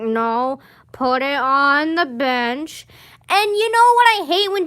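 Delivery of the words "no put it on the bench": slow, drawn-out mock teacher voice. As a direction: stretch it out like a bored teacher. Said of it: "They're like".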